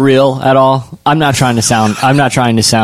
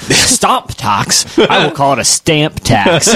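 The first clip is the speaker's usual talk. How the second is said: higher, hammed-up colonial defiance; mock rebellion; 4 semitones higher, slower than usual. Co-host acting out American colonists, mock rebellion. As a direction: play a rebel correcting the vowel. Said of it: "it was probably our rebellion".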